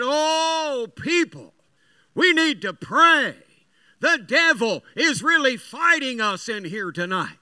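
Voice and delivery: mock shout through cupped hands, stretching the opening call; imitated shout. Old camp MC rallying everybody after power loss, imitated shout. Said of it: "cupped his hands and he shouted".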